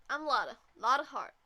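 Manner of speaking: friendly southern twang; Lada. Acted. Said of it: "Lada, man".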